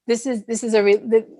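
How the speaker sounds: halting, stumbling over words; stuttering. Real, not acted. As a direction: stutter through the start. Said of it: "I'm stuttering".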